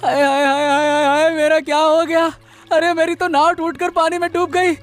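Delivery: mild sobbing lament for the lost boat; wailing lament. Acted. Fisherman mourning his sunk boat, wailing with a touch of tears.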